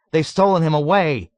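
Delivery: high, loud frantic shout; shouting back. A narrator's reading. Dunbar insisting the soldier is gone, shouting. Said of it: "Dunbar shouted back".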